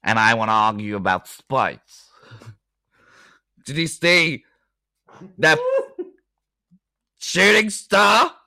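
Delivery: halting attempt at a Norwegian accent; shaky-footed stab at Norwegian. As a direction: argue in a badly faked Norwegian accent. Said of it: "Norwegian arguing about space".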